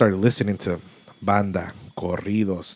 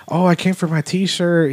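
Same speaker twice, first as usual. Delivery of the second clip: put-on older man's voice; 8 semitones higher than usual.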